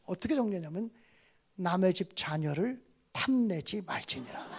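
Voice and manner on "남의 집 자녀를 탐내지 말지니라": laughing quote. Retold or imitated. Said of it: "문학적으로 정리해 갖고 왔어요".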